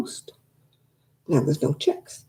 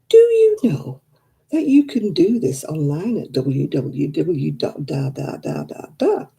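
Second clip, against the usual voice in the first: lightly mimicked recorded message; automated voice; slower than usual. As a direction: read it like a phone recording. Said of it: "Oh, automated voices".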